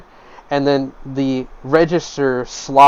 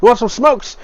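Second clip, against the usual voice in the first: smoke peddler; 8 semitones higher than usual. Acted. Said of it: "He's like".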